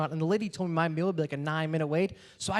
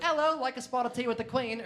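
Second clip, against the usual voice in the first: mock British accent; 6 semitones higher than usual. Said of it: "My brother-in-law's super British".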